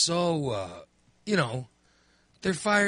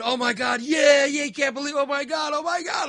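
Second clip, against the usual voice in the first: high-pitched, ecstatic re-enacted cheering; screaming with joy; 11 semitones higher, 5 dB louder than usual. Fan re-enacting the family's screaming at the win, high and ecstatic. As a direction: shriek like your team just won. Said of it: "we're screaming".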